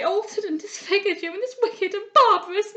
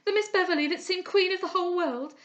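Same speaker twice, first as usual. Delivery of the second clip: high, loud wailing that keeps climbing; girl lamenting at a bedside, near tears; grieving lament; 9 semitones higher, 8 dB louder than usual. A narrator's reading. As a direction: pour out grief over her ruined friend. Lament over disfigured friend.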